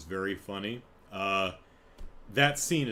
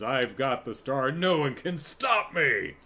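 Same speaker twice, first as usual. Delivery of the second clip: Bowser. Retold or imitated. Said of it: "we've heard Bowser's voice".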